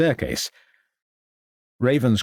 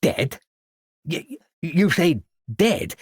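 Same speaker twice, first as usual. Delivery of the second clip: stunned disbelief; 6 semitones higher, slower than usual. A narrator's reading. Shocked headmaster.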